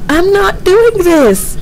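slow, high frightened whisper; scared whisper. Real, not acted. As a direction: whisper it in real fear, slowly. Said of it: "I want to go".

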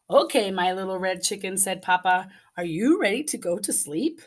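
expressive storybook reading; reading to children. A narrator's reading. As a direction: read it like bedtime story time. Reading picture book aloud.

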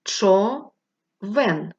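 Човен split into Чо and вен, slow and loud; slow syllable sound-out. Shown as a demonstration. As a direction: chop Човен into two beats for the children. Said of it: "Поставте долоньку під підборіддя".

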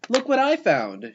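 high, proud storybook call; triumphant shout. A narrator's reading. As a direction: announce the find in triumph. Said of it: "she shouted triumphantly".

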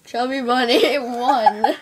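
slow, laughing through a stuffed mouth; cheeks stuffed full. Real, not acted. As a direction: mumble past a mouthful of marshmallows. Saying it with marshmallow-stuffed mouth.

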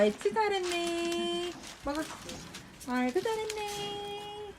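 high coaxing pet voice; talking to a dog. Real, not acted. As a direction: coax the dog kindly.

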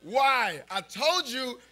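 put-on high, loud panicked kid's cry. Kid spotting space dust, shrieking in mock panic. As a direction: cry out in mock terror at the sky. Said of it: "And I'm like".

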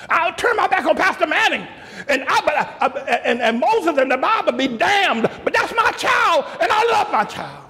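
a parent's voice climbing from calm to a high shout; hammed-up defiant parent, starting measured and ending in a high shout; mock defiant parent. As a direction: build the stubborn parent from reasoning up to yelling. Parent voiced defying the pastor.

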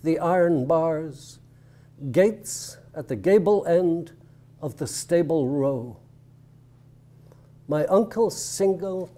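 measured poem recital with deliberate pauses; slow, weighted line endings in a poetry reading. Real, not acted. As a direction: read it line by line, letting each phrase stand.

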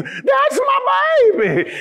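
high, piercing proud mom yell; mama in the crowd shouting for her son; mama's scream. Retold or imitated. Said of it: "she screams".

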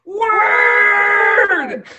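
long, high full-voiced shout; shout to the hilltops. Shown as a demonstration. Showing listeners the shout step, shouted long and high. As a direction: holler it out to the hilltops. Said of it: "shout it to the hilltops".

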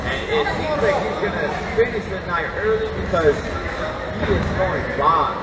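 excited. Real, not acted. Commentator excited at flurry.

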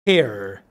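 low, distinct "pear" rhyming with "air"; model pronunciation. Shown as a demonstration. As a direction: say "pear" with an "eh" vowel and English r. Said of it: "la pronunciamos". ("pear" grave, con e y r inglesa)

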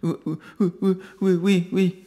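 put-on high, faltering little-child yeses; childlike, halting. Broken man answering his master like a child. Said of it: "Tel un petit enfant, il répondit de manière saccadée".

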